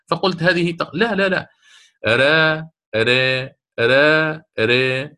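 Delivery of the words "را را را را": "را" switched between open and fronted vowel; sustained, separated demo syllables of "را"; alternating ra sounds. Shown as a demonstration. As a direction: contrast the vowel shades of "را" on a held note. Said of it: "اللسان في الراء المقللة".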